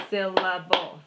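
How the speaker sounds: "Syllable" split into separate, even beats; "Syllable" broken up, one clap each; clapped syllables. Shown as a demonstration. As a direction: punch each beat of "Syllable" for counting. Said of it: "we talk about clapping the syllables".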